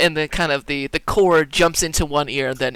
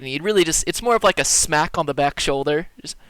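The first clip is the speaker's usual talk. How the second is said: ordinary talk, nothing marked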